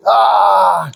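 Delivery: a quick forceful "ah" pushing the air out; sharp breath-out shout. Shown as a demonstration. Teacher showing the class a sharp exhale shout. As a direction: blast the breath out on one short "ah". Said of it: "Ahorita lo hice con ustedes cuando hice".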